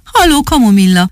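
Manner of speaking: a mild storybook shout of hello; calling out. Acted. Tomi calls up to his friend's window, mild cheerful shout. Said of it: "kiáltott fel Tomi".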